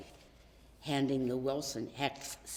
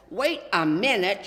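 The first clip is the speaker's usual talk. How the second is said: mild call; 3 semitones higher, 11 dB louder than usual. A narrator's reading. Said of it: "shouted his dad".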